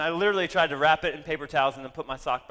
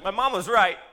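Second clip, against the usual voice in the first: dismayed realisation; 6 semitones higher, 7 dB louder than usual. Retold or imitated. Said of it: "My very first thought".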